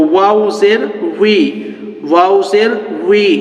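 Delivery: slow drawn-out spelling drill, each line twice; slow recitation. Shown as a demonstration. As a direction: chant each letter slowly for students to repeat. (ধীরে ধীরে বানান পাঠ)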